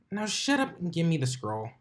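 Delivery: bossy Dash voice. Acted.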